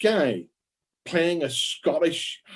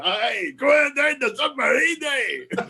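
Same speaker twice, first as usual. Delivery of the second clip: high, hammed-up Scottish submarine commander; exaggerated Scottish film-star parody; Sean Connery; 8 semitones higher, slower than usual. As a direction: shout it in a mock Scots accent. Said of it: "never held back Sean Connery".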